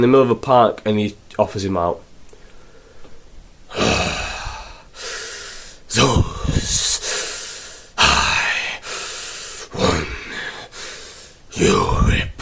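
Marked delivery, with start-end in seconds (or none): 3.7-12.3 soft, breathy, halting villain mumble; Zeus's voice. Retold or imitated. Zeus challenging Hogan in the park, halting. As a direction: drag it out in broken pieces. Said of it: "And he talks like that".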